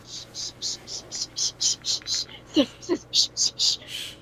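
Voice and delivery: soft whispered shh over and over; shushing. Retold or imitated. Knuckles hushing the screaming victim, whispered shushing. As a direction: hush someone steadily and quietly. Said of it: "Knuckles was like".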